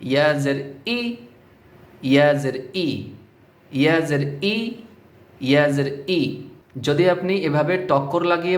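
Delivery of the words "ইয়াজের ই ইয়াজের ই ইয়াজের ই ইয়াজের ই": "ইয়াজের ই" with a jolted, hamza-like ই; wrong hamza-like ই. Shown as a demonstration. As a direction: knock into the final ই as a glottal hamza, wrongly. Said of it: "ভুল উচ্চারণটি আমি বলছি".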